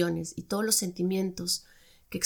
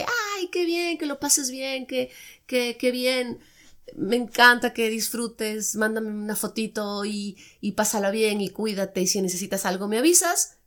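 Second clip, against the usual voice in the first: mock sweet partner; 3 semitones higher than usual. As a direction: play the overly nice partner, syrupy at first. Partner voiced, sweetly approving.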